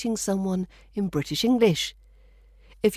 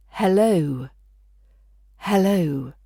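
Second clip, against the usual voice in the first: Hello with the weight on lo, not the h; stress on the low part; slower than usual. Shown as a demonstration. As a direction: lean into lo in Hello, h light. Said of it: "the emphasis tends to fall on the low part".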